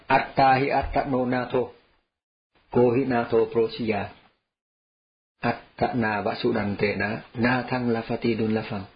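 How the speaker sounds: slow, measured Pali recitation; scripture recitation. Acted. Teacher quoting the Buddha's Pali verse, slow recitation. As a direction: recite the verse slowly and evenly.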